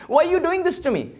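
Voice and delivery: high, plaintive cry to Krishna; pleading Shiva. Retold or imitated. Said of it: "He said".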